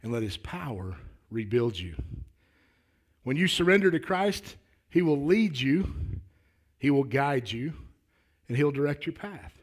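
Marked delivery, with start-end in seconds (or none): 3.2-9.5 lifted, louder pulpit promise; emphatic preaching. Acted. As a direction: proclaim each promise firmly to the congregation.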